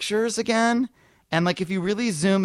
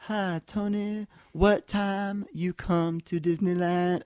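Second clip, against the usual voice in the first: slow, drawn-out mock voice; mocking the caller; 2 semitones higher, slower than usual. Comedian quotes his noon call, slow mock voice. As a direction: drag it like the slow guy. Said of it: "you made me anger".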